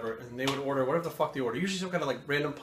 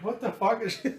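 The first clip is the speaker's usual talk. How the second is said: laughing through a baffled question; half-laughing disbelief at her early cardio; 8 semitones higher than usual. Retold or imitated. Boyfriend laughing in disbelief at girlfriend's early cardio plans.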